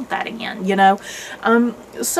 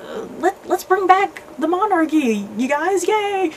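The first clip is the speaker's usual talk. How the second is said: higher, mock-excited call to bring the king back; mock cheerful France; 6 semitones higher than usual. Reviewer mocking France wanting a king back, higher and mock-excited. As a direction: ham up a giddy nation cheering for its monarchy. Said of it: "If France all of a sudden was like".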